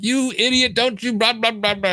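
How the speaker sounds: replaying a half-hearted blow-up; retold telling-off. Retelling how he went off on the guy, mock angry. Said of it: "So I just went off on the guy".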